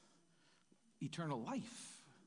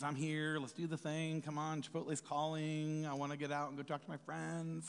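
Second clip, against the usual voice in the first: grumpy obedience; 2 semitones lower than usual. Retold or imitated. Churchgoer stuck in service, mildly grumpy and impatient. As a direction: sigh through it like you'd rather leave. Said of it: "Grumpy obedience".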